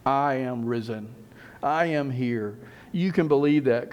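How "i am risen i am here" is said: slow, settled statement of fact; matter-of-fact. Acted. Jesus wants them to know, matter-of-fact. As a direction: state each word plainly and firmly. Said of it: "as a matter of fact".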